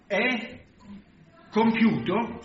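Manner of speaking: retold cry. Jesus crying out as he dies on the cross, retold cry. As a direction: call it out high, with weight. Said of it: "e lui gridò".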